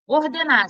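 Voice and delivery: "Ordenar" with the last syllable, NAR, stressed; stress on final syllable. Shown as a demonstration. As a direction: lean on NAR at the end of "Ordenar". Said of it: "sílaba tônica é o na". ("Ordenar" com a última sílaba, NAR, tônica)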